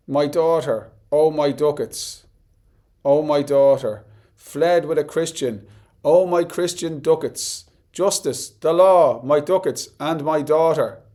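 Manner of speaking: slow, emphatic dramatic recitation; distraught Shylock quote. Acted. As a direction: declaim it like a wronged father crying out. Quoting Shylock's outcry from the play.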